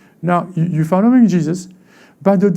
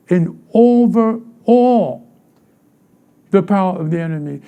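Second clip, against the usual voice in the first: proclaiming scripture; 3 dB louder than usual. Acted. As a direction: ring out the verse like a proclamation. Preacher quoting scripture forcefully.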